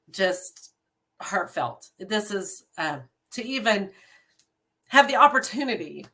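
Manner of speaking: halting, choked-up sincerity; emotional. Real, not acted. Leader addressing her unit, getting emotional. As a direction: pause as feeling gets in the way. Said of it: "I'm getting a little bit emotional".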